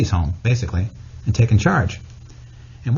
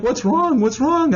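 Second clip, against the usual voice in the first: high-pitched imitation of a concerned mom; put-on worried mother; mother's voice; 14 semitones higher, slower than usual. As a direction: fuss over a crying child in a high mom voice. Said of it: "And she's like".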